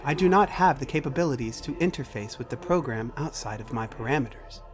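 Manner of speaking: measured, precise machine voice; computer character, matter-of-fact. Acted. Computer tells Macy what it cannot access, formal machine voice. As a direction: state it formally, like an AI reporting limits.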